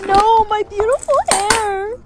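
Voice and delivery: comic laugh-cry lament; crying over hair. Acted. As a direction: sob out the loss of her hair. Mourning her cut hair.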